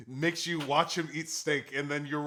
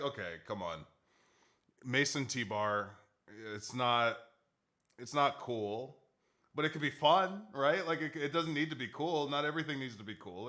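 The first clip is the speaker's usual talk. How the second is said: soft coaxing; 3 semitones lower, 7 dB quieter than usual. Retold or imitated. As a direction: talk them round gently and under the breath. Quietly coaxing over the costume pitch.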